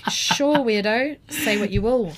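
drawn-out, high and loud humouring; mock indulgence. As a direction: humour the weirdo, stretching the words out. Humouring the strange man, retold.

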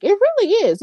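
eager, high It really is; excited agreement. Real, not acted. To her viewers, gushing about Carlito being back: excited, high. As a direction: pitch jumps way up on really.

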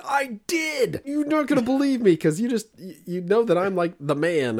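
high, loud, defensive insistence; mock outrage at being doubted; indignant protest. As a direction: insist you did knock.

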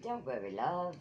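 light British endearment; mock British accent. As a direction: reassure them like a mock Brit. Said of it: "people in England do that".

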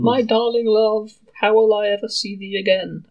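slow hammed-up mourning; mock widow mourning her husband; melodramatic lament. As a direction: wail like a stage tragedian.

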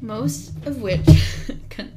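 giggling. Real, not acted. Reading the article, cracking up. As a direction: fight through the giggles.

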